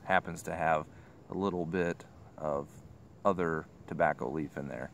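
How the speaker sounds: talking around pipe stem; pipe in mouth. Real, not acted. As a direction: lips gripping pipe. Seen 0: Pipe stem held at mouth corner while talking through most frames.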